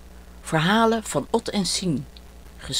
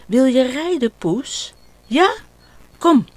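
put-on high, bright child's offer; a boy eager to play horse; little boy voice; 7 semitones higher, 5 dB louder than usual. Ot offering his cat a ride, excited child voice.

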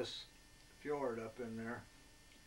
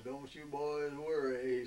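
southern drawl; 3 semitones higher, 5 dB louder, slower than usual. Retold or imitated. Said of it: "he talked in his southern drawl".

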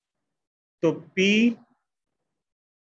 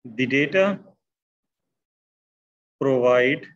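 word by word, long pauses between phrases; slow dictation; 3 semitones lower, much slower than usual. Real, not acted. Teacher writing out the interpretation for students, slow dictation. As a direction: dictate slowly as you write it out.

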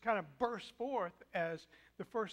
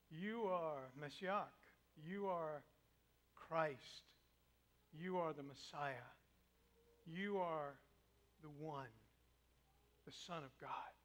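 low, soft and slow declaration; profound; 5 semitones lower, 6 dB quieter, slower than usual. Acted. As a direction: speak from the soul. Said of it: "speaks with a profoundness".

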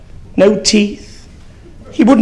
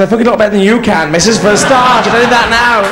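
rude parrot voice; 4 dB louder, faster than usual. Acted. Foul-mouthed talking bird.

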